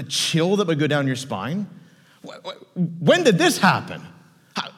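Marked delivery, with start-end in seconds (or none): 2.3-4.7 acted stunned sputter; stammer, then burst out with the question; stammering shock. Peter hears Satan demanded him, stammering in shock.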